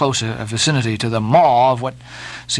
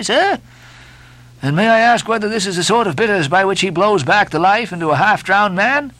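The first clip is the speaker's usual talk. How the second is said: higher, sarcastic complaint; indignant mate; 5 semitones higher than usual. Acted. Stubb complaining to Starbuck about the steward, sarcastic. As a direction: lay the sarcasm on for the officer.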